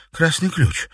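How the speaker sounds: the answer clicking into place; sudden realization. A narrator's reading. Katerina guessing the secret, realizing. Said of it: "догадалась Катерина".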